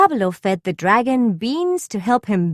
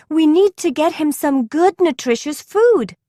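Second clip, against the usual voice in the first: declaring; 6 semitones higher than usual. A narrator's reading. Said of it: "declared Dora".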